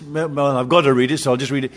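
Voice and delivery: mock-resigned, low and offhand; mumbled chore, a touch grudging; dutiful resignation. Preacher imitating someone reading the Bible from duty, resigned.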